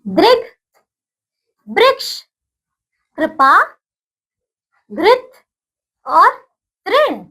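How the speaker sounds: each word said clearly, with pauses for repeating; say after me. Shown as a demonstration. Teacher leading children in reciting words, clear and paced. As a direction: model every word for the class to echo. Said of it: "बोलिएगा मेरे साथ".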